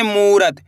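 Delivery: मूरत with the ऊ of मू held long; stretched u vowel. Shown as a demonstration. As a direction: draw out the मू in मूरत. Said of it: "खींच के पढ़ना है मूरत".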